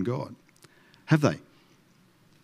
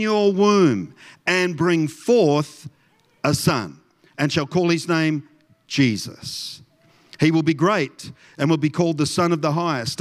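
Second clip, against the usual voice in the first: story voice; 3 semitones higher than usual. Shown as a demonstration. Pastor reading the angel's message to the congregation, in a story voice. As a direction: tell the nativity with measured grandeur. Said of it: "read it in my story voice".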